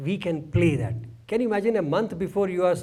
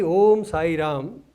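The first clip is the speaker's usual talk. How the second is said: nicely, drawn out; 5 dB louder, much slower than usual. Retold or imitated. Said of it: "We said nicely".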